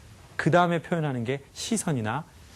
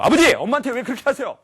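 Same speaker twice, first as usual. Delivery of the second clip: high, loud protesting cry; acted outburst, hard on the first word; confronting father; 11 semitones higher, 8 dB louder than usual. Son confronting father over mother, loud acted protest. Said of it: "제가 아버지한테 가가지고".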